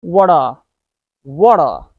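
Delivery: Water as "what are" run together, "wuh-dar"; linked flap T. Shown as a demonstration. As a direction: link the two words of Water with a tapped T. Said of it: "What are becomes".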